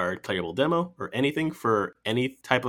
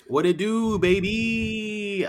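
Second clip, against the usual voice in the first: hyped greeting; 11 semitones higher, much slower than usual. Real, not acted. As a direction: greet the crowd with big energy.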